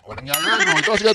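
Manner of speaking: whisper aside. Real, not acted. Aside after the clip.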